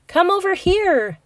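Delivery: high, loud call across the room; bright calling voice. Acted. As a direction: beckon the whole class over. Teacher calls class over.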